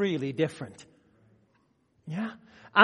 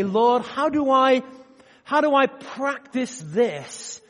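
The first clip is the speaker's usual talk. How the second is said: sincere prayer; 4 semitones higher, slower than usual. Retold or imitated. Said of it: "we need to say".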